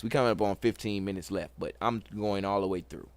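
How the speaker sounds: quick, low-pitched rush; real time-pressed pace; talking fast. Real, not acted. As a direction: hurry through it in a low voice. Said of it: "Sorry if I'm talking fast".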